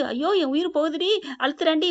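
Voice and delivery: mild, storyteller's version of a panicked yell; retold cry. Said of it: "கத்துறாங்க".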